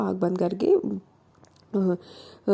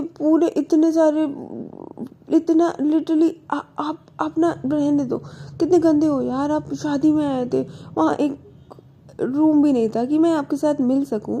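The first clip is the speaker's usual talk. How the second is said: whiny complaint; 6 semitones higher than usual. Acted. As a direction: whine at him like a hurt girlfriend. Girlfriend complains about wedding visit. (ऊँची आवाज़ में रूठी हुई शिकायत)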